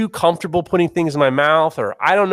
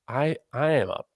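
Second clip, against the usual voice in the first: self-loathing mutter; 5 semitones lower, 7 dB quieter than usual. Retold or imitated. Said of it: "I was like".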